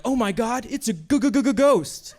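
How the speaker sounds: a hammed-up frightened victim; mock panic, very slow stutter on ghost; mock terrified stammer. Homophobe scared by ghost.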